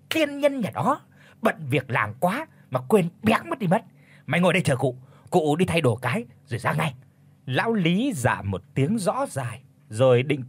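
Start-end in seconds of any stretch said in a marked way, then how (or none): 0.1-6.9 sudden glee, jumping high at the start; delighted exclamation. Acted. Old Chánh brightens at news of the singing, exclaiming. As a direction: slap the thigh and burst out happily. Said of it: "thốt lên".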